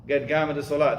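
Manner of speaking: "Get gama" with hard g sounds for qad qamat; northern Yemeni accent. Retold or imitated. Teacher imitating the iqama call for students. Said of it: "that's how they say".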